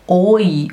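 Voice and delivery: the vowel pair said clearly as "Oi". Shown as a demonstration. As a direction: sound out "Oi" for German EU. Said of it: "no alemão faz som de oi". (som de "oi" bem marcado)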